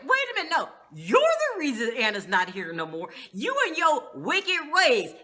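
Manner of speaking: Candace snapping back at the boss; mock indignant retort. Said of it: "Candace was like".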